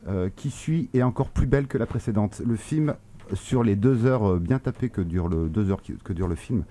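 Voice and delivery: muffled speech behind a mask; talking through a mask; through a face mask. Real, not acted. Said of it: "parler avec un masque, ça me saoule".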